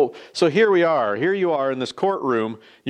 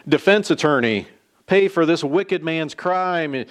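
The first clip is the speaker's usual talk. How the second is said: indignant mock outcry, raised in pitch; retold scream; 3 semitones higher than usual. Devil objects to the judge, mild mock scream. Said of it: "this time screams out".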